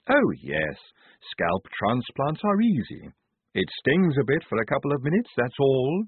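lightly voiced young Igor with a lisp; Igorina voice. A narrator's reading. Igorina voice, far timbre.

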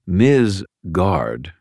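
Miz pressed hard and drawn out; stress on Miz. A narrator's reading. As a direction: lean on the word Miz. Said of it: "he said, emphasizing the Miz".

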